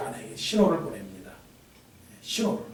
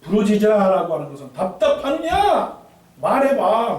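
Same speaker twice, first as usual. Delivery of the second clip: louder, higher pleading call; urgent plea; 7 semitones higher, 7 dB louder than usual. Acted. Preacher voicing God pleading with his people to speak. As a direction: press them to speak up.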